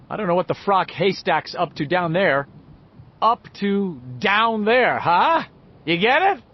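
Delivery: pleased with his own pun; joking boy. A narrator's reading. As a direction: sell the joke gleefully. Richie cracking a joke.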